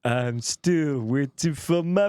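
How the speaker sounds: slow, stuffy sung quote; Phoebe with a cold. Retold or imitated. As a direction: drag it out like a sick singer. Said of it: "when Phoebe gets a cold and she's like".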